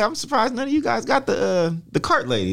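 a light Conor McGregor Irish lilt; attempted Irish accent. Golfer retelling Irish golfer's joke, weak Irish accent. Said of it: "I can't do the accent".

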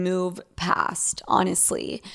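whispered honestly. Real, not acted. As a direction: drop to a whisper. Trailing-off personal advice.

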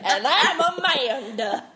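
hammed-up old-timey prospector. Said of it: "pretending to be old-timey prospectors".

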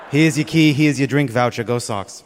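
put-on concierge with a Boston accent. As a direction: try out a broad Boston accent. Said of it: "How was that Boston accent".

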